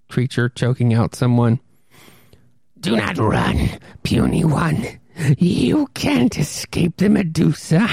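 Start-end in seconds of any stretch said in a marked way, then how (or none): 2.8-7.8 a taunting villain, gloating over prey; menacing ghoul voice. Acted. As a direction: loom over the victim and savor it. Monster taunts its fleeing victim.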